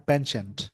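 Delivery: पेंचेंट as pen-chent with a clear ch; पेंचेंट, American style; American pronunciation. Shown as a demonstration. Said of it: "जिसका pronunciation हो जाता है".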